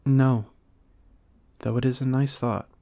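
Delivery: a playful, lofty Lamb; Lamb's voice. A narrator's reading.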